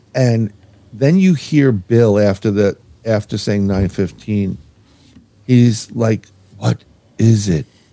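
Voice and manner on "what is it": put-on robotic monotone voice. Retelling what someone asked in a recording: imitating Bill's robotic voice. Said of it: "the way he says it is very robotic".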